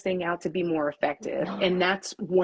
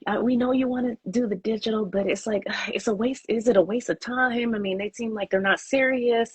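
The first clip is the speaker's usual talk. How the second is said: imitated African accent, pitched up; 4 semitones higher than usual. Clients doubting digital media is worth their time, imitated African accent. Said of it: "my African accent".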